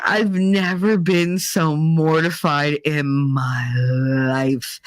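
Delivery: slow, drawn-out mock mortification; mortified. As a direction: drag it out to the last word. Mortified at the memory.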